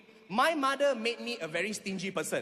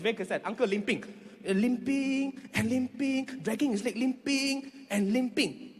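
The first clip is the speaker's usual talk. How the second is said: mock limping drawl; slower than usual. Shown as a demonstration. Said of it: "this was how the uncle was limping".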